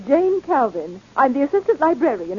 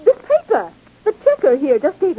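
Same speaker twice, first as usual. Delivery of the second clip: agitated; 5 semitones higher than usual. Acted. Librarian discovers the theft.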